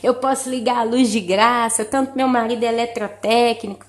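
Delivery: ordinary delivery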